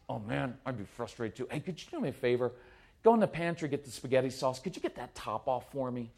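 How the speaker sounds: soft, low, casual sympathy; calm empathy. Pretend. Parent to upset child while cooking, calm and low-key. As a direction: defuse it gently, keeping it low and easy.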